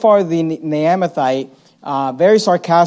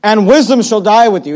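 mock praise, a bit louder; sarcastic; 2 semitones higher, 4 dB louder than usual. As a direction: tease them with it. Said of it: "how we know he was being sarcastic".

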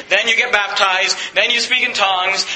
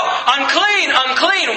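mock yell; 3 semitones higher, much slower than usual. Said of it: "They had to yell".

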